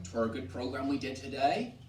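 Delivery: rural English accent, "It were" run together as "'twere"; rural eighteenth-century dialect. Shown as a demonstration. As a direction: West Country dialect with a rising end. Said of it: "different way of speaking itself".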